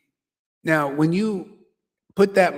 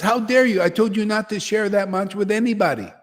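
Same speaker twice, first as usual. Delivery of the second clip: mock scolding; 3 semitones higher, faster than usual. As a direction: act out a guru's indignant rebuke. Acted guru scolds his disciple.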